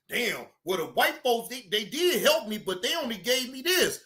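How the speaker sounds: low, soft whiny mock grumble; mocking complainer. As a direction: mope like a sulky complainer, voice dropped low.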